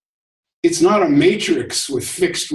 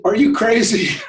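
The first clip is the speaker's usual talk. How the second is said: mock-incredulous, pitched up; higher, lightly acted disbelief; incredulous frog; 7 semitones higher than usual. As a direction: voice a baffled frog in a fable. Dying frog confronts scorpion in story.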